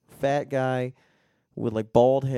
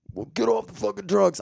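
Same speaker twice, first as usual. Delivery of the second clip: mock scolding; 9 semitones higher, 4 dB louder than usual. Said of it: "I'm not that kind of person that's like".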